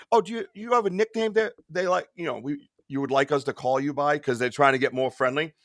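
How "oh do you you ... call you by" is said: polite agent. Retold or imitated. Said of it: "the woman goes".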